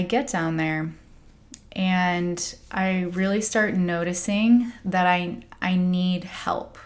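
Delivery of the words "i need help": hushed, breathy-free whisper of need; whispered plea. Retold or imitated. Admitting to the group she needs help, whispered. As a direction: confess it under your breath.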